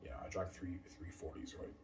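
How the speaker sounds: a bit slurred after drinking; tipsy. Real, not acted. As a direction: let the drink loosen your words. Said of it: "I'm a little bit tipsy".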